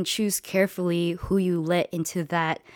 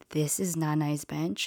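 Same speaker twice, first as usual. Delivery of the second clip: soft stunned question, almost a whisper; hushed disbelief; 6 dB quieter than usual. Retold or imitated. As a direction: breathe it out in quiet shock. Stunned question about grandma's bench.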